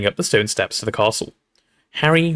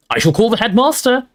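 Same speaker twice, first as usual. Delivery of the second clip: much higher, indignant threat; Professor McGonagall shouting; 11 semitones higher, 4 dB louder than usual. A narrator's reading. Professor threatening the poltergeist, indignant shout. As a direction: cry it out sternly. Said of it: "shouted Professor McGonagall".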